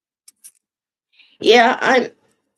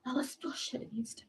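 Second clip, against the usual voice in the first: whispered repeat of her complaint; 16 dB quieter than usual. Real, not acted. Repeats the line, this time whispered.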